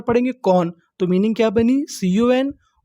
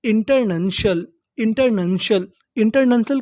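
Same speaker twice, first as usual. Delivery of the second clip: slow and careful. Shown as a demonstration. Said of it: "शल".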